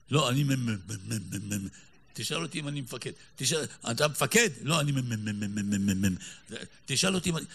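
stuck on מ- over and over, in a comic sketch stutter. Acted. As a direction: play the stammerer from the comedy sketch. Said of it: "המערכון הזה של המגמגמים".

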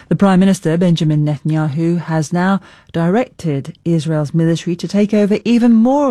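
composed news anchor delivery with deliberate emphasis; news read. Acted. Anchor introducing a report on the Gaza ceasefire, news read. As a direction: read it as a scripted bulletin.

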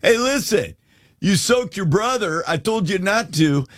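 lightly voiced exasperated dad; a hint of a father reasoning with his sons; dad explaining. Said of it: "Dad's trying to explain".

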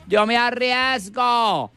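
camp gay voice. Acted. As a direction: beg to fight the bull, camp. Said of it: "la loca, dijo". (voz de loca, alta y lenta)

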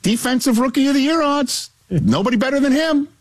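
squeaky-high hype; put-on high-pitched boasting; very high register. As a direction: push the pitch way up and keep it there. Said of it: "Pretty high".

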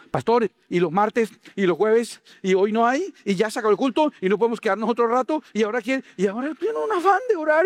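high, whiny plea to the pastor; pleading churchgoer. Retold or imitated. Churchgoer begging the pastor to stay and pray, whiny. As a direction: beg the pastor like a suddenly devout member.

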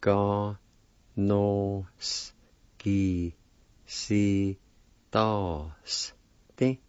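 Ga, no, s, ki, si, to, s, ti, each said as a separate syllable. Shown as a demonstration. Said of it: "It's pronounced like this".

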